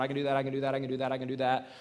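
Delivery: mechanical, unbroken string of repeats; rote repetition. Acted. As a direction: run the repeats together in a monotone. Mocks a life spent endlessly saying it.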